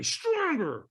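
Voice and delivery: drawn-out mock trainer yell; mock scream. Trainer screaming at a holdback walker, mock scream. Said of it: "screamed at me".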